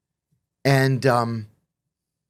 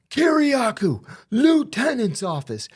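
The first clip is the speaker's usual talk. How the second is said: barked summons; 11 semitones higher than usual. Retold or imitated. Guard calls the inmate to the office, mock bark. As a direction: summon him to the lieutenant's office.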